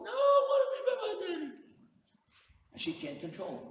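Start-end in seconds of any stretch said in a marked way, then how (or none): 0.0-1.5 put-on high shrieking child's wail; mock crying tantrum. Boy refuses mom at bedtime, hammed-up screaming cry. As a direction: scream it out like an inconsolable kid. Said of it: "he's crying".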